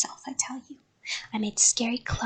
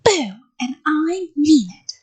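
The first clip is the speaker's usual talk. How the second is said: loud boo rising higher and slower; shouted threat; 6 semitones higher, 7 dB louder, slower than usual. A narrator's reading. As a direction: shout it and insist you mean it. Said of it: "I shouted".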